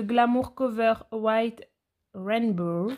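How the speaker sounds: English product name in a French accent; real French accent on English words. Real, not acted. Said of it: "On oublie mon accent anglais".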